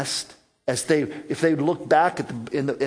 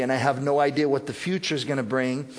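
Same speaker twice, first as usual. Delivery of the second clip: calm, trusting; faster than usual. Retold or imitated. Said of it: "this is our attitude".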